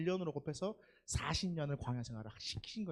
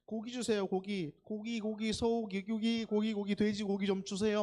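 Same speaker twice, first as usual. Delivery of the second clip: raised-pitch pestering demand; mock complaining; 4 semitones higher, 4 dB louder than usual. Preacher acts Israelites craving meat, mock complaining. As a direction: plead over and over, acting out the grumblers. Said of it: "막 이렇게 원망하는 거예요".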